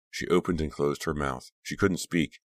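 usual speaking voice

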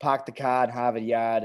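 light Boston accent, dropped r's; a hint of a Boston accent, no r's. Shown as a demonstration. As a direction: toss off the classic Boston accent line. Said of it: "the famous line if you wanna do a Boston accent".

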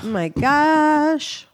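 high, slow overwhelmed sigh; drawn-out high exasperation; exasperated. Pretend. Overwhelmed by listings.

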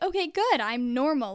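put-on a kid telling herself she's fine, voice jumping up on good, then relieved; relieved self-talk. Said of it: "it felt good".

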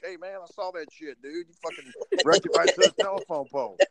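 mock a hyped onlooker who saw it all; excited neighbor. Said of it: "They're like".

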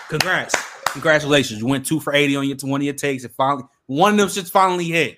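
loud mocking congratulations; sarcastic congrats. Real, not acted. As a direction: rub the win in his face. Mock congratulations to rival.

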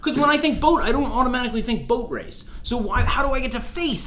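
high, loud, laughing protest over the boat slang; exasperated disbelief. Real, not acted. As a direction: throw up your hands at the word boat, laughing.

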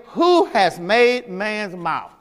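a hint of solemn divine authority, words drawn out; lightly voiced God. God questions Moses about his excuses, lightly voiced, slow and weighty.

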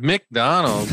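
"McDonald's" retried alone, still starting with a full "Mick"; "McDonald's" with a distinct "Mick" up front; odd pronunciation. Real, not acted. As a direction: repeat "McDonald's" as "Mick-Donald's", testing the sound. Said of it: "I said that weird".

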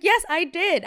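high, loud defiant admission; retold defiant retort. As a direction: own it loudly, mock-combative. Retold quarrel, answering the wife back.

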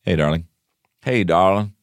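lightly put-on cowboy accent; half-hearted cowboy accent. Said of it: "If you have the actual genuine accent".

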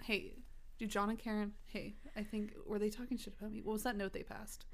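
imitating a paranoid new student, hushed; furtive classroom whisper. Treating friend's parents like new classmates, furtive whisper. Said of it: "like new students in class".

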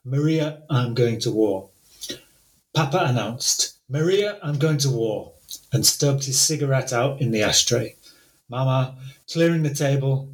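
measured literary reading of a translation; storytelling read; story reading. Acted. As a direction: read the opening to the audience, steady. Reads English translation aloud.

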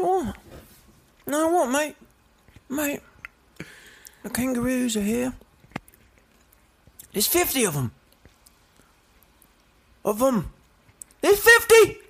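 a Brit hamming up a bad Australian accent; bad Australian, mate, with a burst on fifty; mock Australian accent. British man faking Australian to his friend, mock Australian accent. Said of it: "I want you to be British, but you're trying to convince me that you're Australian".

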